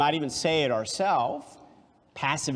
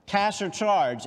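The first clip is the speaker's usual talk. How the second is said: higher, slow polite cashier voice; 6 semitones higher than usual. Acted. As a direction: ask it like a friendly clerk. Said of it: "asked the cashier".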